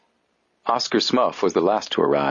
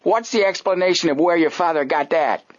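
suspicious; 10 semitones higher than usual. Acted. Smuff voiced suspiciously.

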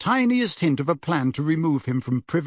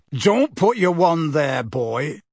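roar; 2 semitones higher, slower than usual. Acted. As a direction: bark a warning, not a full roar. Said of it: "roared Moody".

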